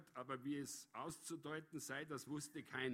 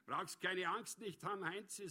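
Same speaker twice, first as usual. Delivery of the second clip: higher, cheerfully teasing retort; amused, raised-pitch comeback; 5 semitones higher, 4 dB louder than usual. A narrator's reading. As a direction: answer the taunt with relish. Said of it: "sagte er vergnügt".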